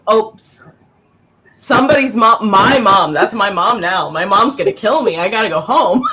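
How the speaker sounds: hammed-up kid in a panic; panicked kid. Kids hearing someone's mom yell, mock panic. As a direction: blurt it like a child in mock dread. Acting out frightened children in mall.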